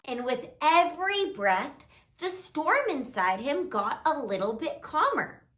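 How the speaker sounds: put-on gentle, measured read-aloud to little kids; children's story narration. A narrator's reading. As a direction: read a calming story, softly and unhurried.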